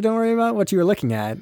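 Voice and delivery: high, quick brush-off; mock hurried distraction. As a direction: rush it out high to distract him. Hurriedly distracting the customer, acted.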